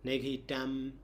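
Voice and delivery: Nigahitam ending in a nasal m. Shown as a demonstration. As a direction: let Nigahitam close on a nasal sound. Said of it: "with the nasal sound".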